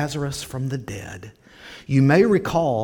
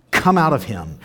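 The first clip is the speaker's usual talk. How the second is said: louder, firm order; stern command; 5 dB louder than usual. Retold or imitated. Jesus ordering the evil spirit out, stern command. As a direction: lean into it with mild sternness. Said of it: "It does say sternly".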